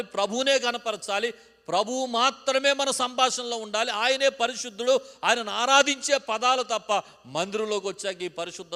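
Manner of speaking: loud, high, insistent rebuke; thundering pulpit prohibition; preaching at full force. Real, not acted. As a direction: drive each line up to a shout.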